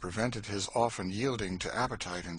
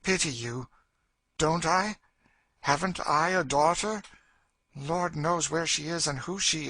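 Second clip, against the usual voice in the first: raised, bitter outpouring; anguished Cassie; 8 semitones higher, 4 dB louder than usual. Acted. Woman mourns her lost daughter, bitter and anguished. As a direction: build bitterly to a loud last word.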